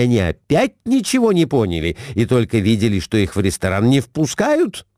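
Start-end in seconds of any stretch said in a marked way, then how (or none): none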